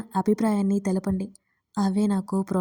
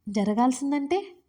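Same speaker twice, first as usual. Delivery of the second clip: puzzled surprise; 3 semitones higher than usual. A narrator's reading. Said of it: "అదే ఆశ్చర్యంతో అడిగాడు".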